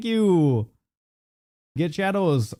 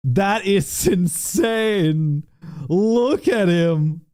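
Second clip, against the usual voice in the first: laughing; 2 semitones higher, much slower than usual. Real, not acted. Laughing at the gift.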